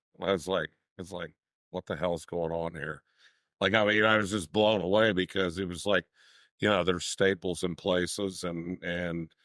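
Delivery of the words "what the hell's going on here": ordinary delivery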